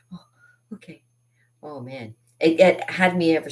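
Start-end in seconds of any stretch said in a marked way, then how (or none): 0.1-1.0 very soft, mock-meek child; small retold acceptance. Calmed child answering in a retold story, small soft voice. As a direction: shrink down to a tiny, soft reply. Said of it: "I'm like".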